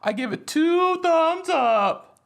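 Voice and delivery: laughing praise. Real, not acted. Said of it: "jokey rave review".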